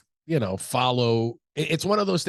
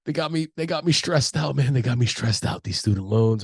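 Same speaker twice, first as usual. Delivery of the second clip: stressed-out bar stranger. Retold or imitated. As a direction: complain like a broke guy at a bar. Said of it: "they're like".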